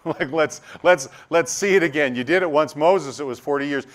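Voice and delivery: demanding crowd. Retold or imitated. Crowd demanding more miracles.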